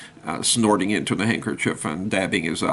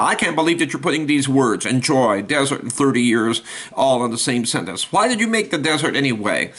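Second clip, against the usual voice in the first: camel's complaint, pitched up and incredulous; indignant camel; 2 semitones higher than usual. Acted. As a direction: camel griping at God about the desert. Grumbling camel complains to God.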